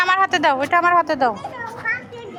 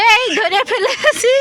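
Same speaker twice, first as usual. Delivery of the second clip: slow, higher, louder playful catch; playful gotcha; 7 semitones higher, 4 dB louder, much slower than usual. Real, not acted. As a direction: pounce playfully in the game. Hide and seek with child.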